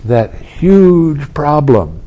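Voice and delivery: huge slowed and loud, mock weight; emphatic huge. Shown as a demonstration. Teacher contrasts the huge problem with a tiny bump, loud slow huge. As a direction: lean hard on huge. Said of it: "is a little tiny bump".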